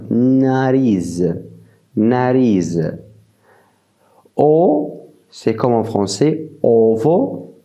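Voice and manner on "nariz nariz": nariz with a final z; Portuguese nariz. Shown as a demonstration. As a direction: say nariz clearly twice. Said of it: "un peu nasale à la prononciation". (nariz à la portugaise)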